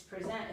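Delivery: "present" stressed on the second syllable, pre-ZENT; verb "present". Shown as a demonstration. Tutor explaining the word to a student, "present" stressed on ZENT. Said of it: "And then it's a verb".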